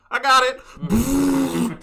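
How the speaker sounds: high, drawn-out shouted "got it"; mock triumphant yell; imitated battle cry. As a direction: holler it like a charging gamer. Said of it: "Chris was like".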